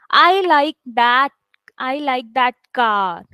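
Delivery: slow, with "car" drawn out; stress on CAR. Shown as a demonstration. Teacher demonstrating noun stress for students, stress on "car". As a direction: land deliberately on CAR at the end. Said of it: "I'm trying to stress on the word car".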